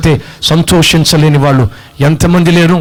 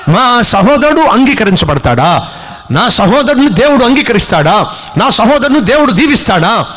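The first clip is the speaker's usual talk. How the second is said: jealous indignation; 5 semitones higher than usual. Acted. Jealous Cain resenting his brother's acceptance, indignant. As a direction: protest as the slighted brother.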